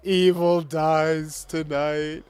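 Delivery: slow, ominous mock villain line; mock villain threat. Gamer taunting the enemy in a slow mock villain voice. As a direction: play the doom-laden villain, lightly.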